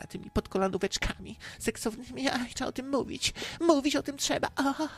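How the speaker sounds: high, soft, swooning cleric; mock priest voice. Priest imagining temptation and insisting on talking about it, mock swoon. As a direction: wind up into a high, aroused priestly coo. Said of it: "księża takimi głosami często mówią".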